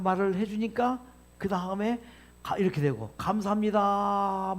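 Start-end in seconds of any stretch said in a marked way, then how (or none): 3.2-4.5 very slow, drawn-out thank-you. Shown as a demonstration. Lecturer showing what was said to the water, very slow. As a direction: stretch the thank-you out slowly. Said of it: "말을 하니까".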